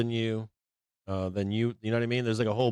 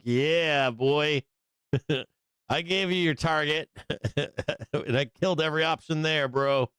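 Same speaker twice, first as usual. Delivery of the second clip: cocky, laughing brag; lightly voiced smug dealer laughing; gloating dealer; 6 semitones higher, slower than usual. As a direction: crow over the win, chuckling.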